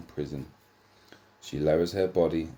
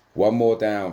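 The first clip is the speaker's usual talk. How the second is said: yell; 5 semitones higher, 8 dB louder than usual. Acted. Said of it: "Frick yells".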